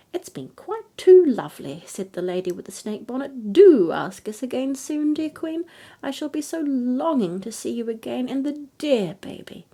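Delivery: high, loud, honeyed gush; snake-bonnet fairy gushing falsely at the queen; gushing farewell. Acted. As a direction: pour on fake sweetness.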